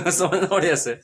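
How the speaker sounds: light laugh running into the words; chuckling. Real, not acted. Teacher chuckling as he tells students to understand properly, laughing.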